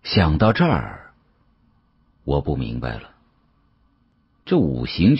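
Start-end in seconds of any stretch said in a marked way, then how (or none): none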